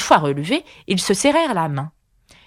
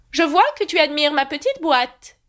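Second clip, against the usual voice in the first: kindly knight voice, high; kindly and pleased, high; 9 semitones higher than usual. A narrator's reading. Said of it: "d'un ton bienveillant".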